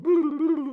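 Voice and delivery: high, loud, wavering "boo"; vocal flashback transition effect; imitated dream-sequence sound. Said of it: "that part where it goes".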